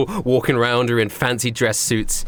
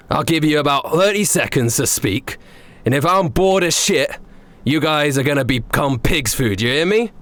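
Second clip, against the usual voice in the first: menacing chef; 5 semitones higher than usual. Acted. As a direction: warn them you'll cook them. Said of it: "and says".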